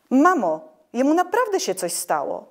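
put-on high, loud alarmed girl's call to mother; worried cry. A narrator's reading. Sister cries out to mother about her brother, high and loud. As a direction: cry out to mum in real alarm. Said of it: "wykrzyknęła wyraźnie zaniepokojona".

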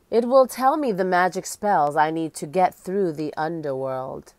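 lightly voiced ghostly queen, solemn; hollow echoing voice. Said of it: "She spoke in a hollow, echoing voice".

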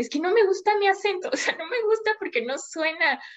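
put-on half-laughing gripe about her own accent, starting high; laughing complaint. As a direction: laugh through the complaint as you retell it. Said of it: "le decía".

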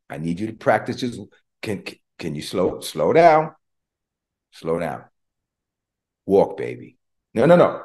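put-on firm then gentle parent guiding a child's steps; coaxing a toddler. Father God teaching his baby to walk, coaxing.

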